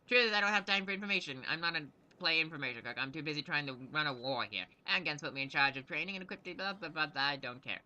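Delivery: lightly voiced irritated gnome commander; a hint of a harried quartermaster; impatient gnome knight. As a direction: brush off questions as a busy officer. Gnome knight brushes off questions.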